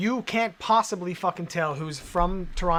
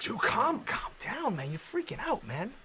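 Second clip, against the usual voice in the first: high put-on voice, going softer; mock calming voice; 6 semitones higher, 4 dB quieter, slower than usual. Talking the angry chatter down in a mock high voice. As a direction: imitate a soothing bro, half teasing. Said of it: "It's like".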